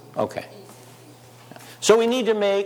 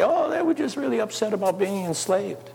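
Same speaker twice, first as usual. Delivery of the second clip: mock understatement; 6 semitones higher than usual. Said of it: "It doesn't say".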